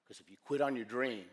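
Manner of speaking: low, soft, with long pauses; hushed, earnest closing; solemn appeal. Real, not acted. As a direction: let the closing warning sink in quietly. Solemn close of motivational talk.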